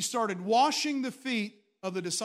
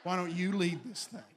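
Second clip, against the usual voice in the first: laughing invitation. Retold or imitated. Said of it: "We said".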